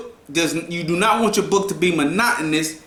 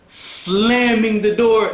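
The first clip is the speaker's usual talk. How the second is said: dramatic reading; 4 semitones higher, slower than usual. Shown as a demonstration. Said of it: "let's say".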